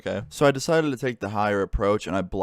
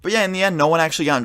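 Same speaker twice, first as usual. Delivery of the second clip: laughing; 8 semitones higher, 7 dB louder, faster than usual. Real, not acted. Laughing at own story end.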